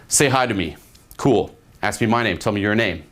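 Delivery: firm short commands with falling ends; full ordering mode. Shown as a demonstration. Coach demonstrating the first thirty seconds, ordering. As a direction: give plain orders, no asking. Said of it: "full ordering mode".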